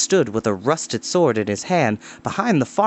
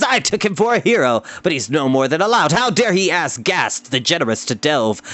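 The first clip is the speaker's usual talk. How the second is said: raised, indignant lordly complaint; pompous lord. Acted. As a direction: puff up in offended pride.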